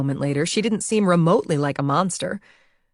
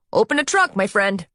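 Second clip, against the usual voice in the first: high-pitched nasal New York doorman; nasal New York accent; 4 semitones higher than usual. A narrator's reading. Doorman knocks on the driver's window, nasal New York accent. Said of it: "in a nasal New York accent".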